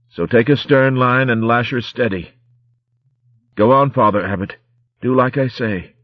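rough strained pirate voice, urgent; dying pirate. Acted. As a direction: push orders out through pain. Dying corsair gives last orders.

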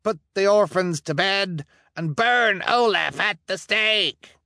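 high, eager demand; eager townsman. Acted. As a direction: demand the burning gleefully. Verhoeven member eager.

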